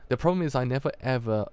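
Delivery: a touch of hurt in subdued lines; lightly voiced dialogue. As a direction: friend and gangster hurting each other, understated. Continues reading the dialogue.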